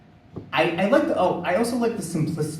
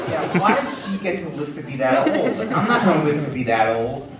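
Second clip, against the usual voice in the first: louder, laughing complaint; laughing about outliving nobody; laughing indignation; 5 dB louder than usual. Real, not acted. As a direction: complain while still laughing. Indignant joke, still laughing.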